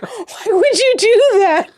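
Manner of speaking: high-pitched through giggles; laughing retelling. Retold or imitated. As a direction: imitate baffled hosts while cracking up. Laughs while retelling hosts' question.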